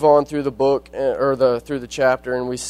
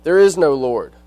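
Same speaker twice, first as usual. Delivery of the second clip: loud, sharp retort of an angry neighbor; angry retold shout; 3 semitones higher, 7 dB louder than usual. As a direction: shout it back at her, but as a retelling. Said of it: "he would shout".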